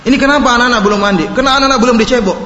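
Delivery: put-on husband snapping at his wife about the kids; scolding husband. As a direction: fire off the complaint fast like an irritated husband. Husband scolding wife over children.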